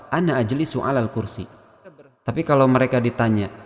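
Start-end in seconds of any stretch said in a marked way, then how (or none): 0.1-1.5 "Ana" with a short last vowel, linked into "ajlisu". Shown as a demonstration. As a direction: run "Ana" straight into "ajlisu" without holding it. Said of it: "ananya pendek karena wasol".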